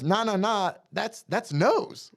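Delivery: high, slow, proud explaining; proud dad voice. Retold or imitated. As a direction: show off his clever son. Voicing Scott proud.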